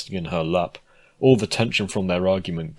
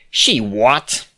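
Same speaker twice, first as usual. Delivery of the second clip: shocked; 4 semitones higher, 6 dB louder than usual. Acted. Shocked at the invitation news.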